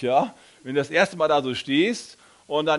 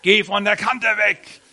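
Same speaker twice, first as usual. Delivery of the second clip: slow, loud, higher warning; loud inner voice; 5 semitones higher, 6 dB louder than usual. Retold or imitated. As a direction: shout the warning slowly, laughing a little. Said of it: "bei null war die so laut". (lautes, langsames Warnen mit Lachen)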